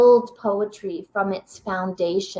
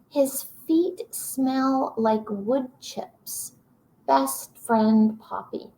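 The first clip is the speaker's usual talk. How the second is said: slow poem reading; slower than usual. Acted. Rereads the poem's last lines.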